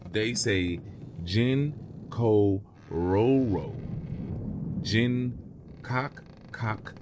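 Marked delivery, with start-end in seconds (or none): 1.2-6.9 toad's call read out. Shown as a demonstration. Narrator demonstrates the children's toad call, slow and hushed. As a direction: read the call slowly, fading to a whisper. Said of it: "I will read it for you now".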